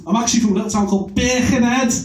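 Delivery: Birkenhead said in a broad Scouse accent. Shown as a demonstration. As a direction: say Birkenhead with thick Merseyside vowels. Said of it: "I didn't say it in my natural accent".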